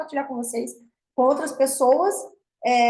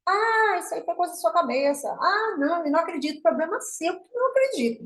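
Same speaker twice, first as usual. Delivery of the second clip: higher-pitched imitation of a skeptic; mock dismissive doubter; 6 semitones higher than usual. Speaker voices doubters telling her it was in her head, mock dismissive. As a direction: lightly act out someone brushing it off.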